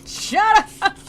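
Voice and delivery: very high, loud comic screech; hammed-up yell, repeated in exasperation; imitated yelling. Virgil yelling at Capaneus to silence him, mock-furious. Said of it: "he's yelling at Capaneus".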